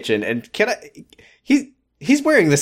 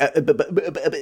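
stammering Ricky; 3 semitones higher, much faster than usual. Retold or imitated. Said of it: "Ricky's like".

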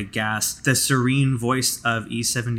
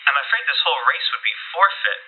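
brisk, formal commander; curt commanding Amelia; faster than usual. Acted. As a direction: press him like a stern race official. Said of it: "she says".

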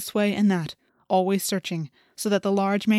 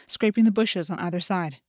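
usual speaking voice

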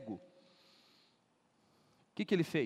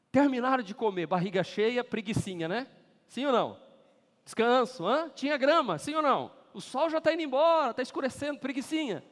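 excited preaching; 7 semitones higher, 8 dB louder than usual. Real, not acted. Excited preaching about resting crowd.

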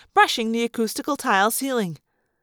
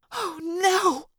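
softer, hushed horror; horrified whisper; 6 semitones higher, 5 dB quieter than usual. Acted. Cassie stares at the crocodile emerging, whispering in horror. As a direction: breathe it out, appalled. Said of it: "Cassie whispered in utter horror".

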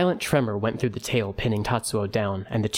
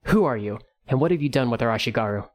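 loud, fast, demanding challenge; faster than usual. Acted. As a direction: call out sharply over the noise. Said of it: "Kogwe's voice was loud enough to be heard".

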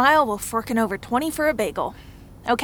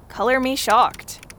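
sarcastic; 3 semitones higher than usual. Acted. Sarcastic reply to wealthy users news.

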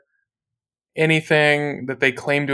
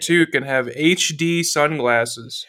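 infomercial. Pretend. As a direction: sell it like a late-night ad. Ad pitch parody.

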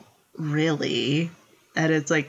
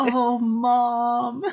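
higher, laughing oh mom; fond exasperation; 8 semitones higher than usual. Real, not acted. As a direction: tease her lovingly.

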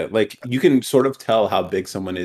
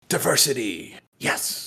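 hushed, hammed-up delight; mock excitement; 3 semitones higher, 6 dB quieter, slower than usual. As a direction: imitate a company quietly thrilled. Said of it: "They get more excited".

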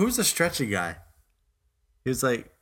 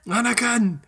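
accent impression; 10 semitones higher than usual. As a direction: parrot the hammed-up Jedi cry. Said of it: "Is this Accents Part Two".

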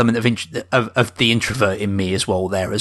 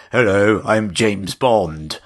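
put-on terrible James Bond accent. Mocking the spy to a friend, a faint Scottish Bond accent. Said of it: "Terrible James Bond accent".

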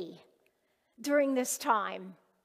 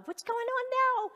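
worried friend on the phone; 12 semitones higher than usual. Retold or imitated. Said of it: "he's going".

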